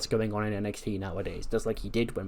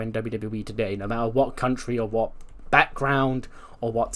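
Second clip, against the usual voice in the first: put-on American accent. Speed Champion boasting to Funaki in a light American accent. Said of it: "giving him the American accent".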